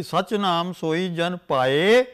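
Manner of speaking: slow, drawn-out chant of the verse; slow scripture recitation. Shown as a demonstration. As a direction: stretch every syllable of the line.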